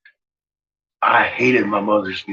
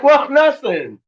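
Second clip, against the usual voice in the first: excited retort; 7 semitones higher than usual. Retold or imitated. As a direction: fire it back, all worked up. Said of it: "I was like".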